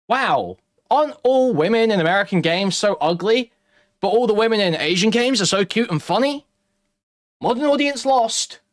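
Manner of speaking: a hint of a whiny ranter; lightly mock the complaint. Parodying Rev's video rants.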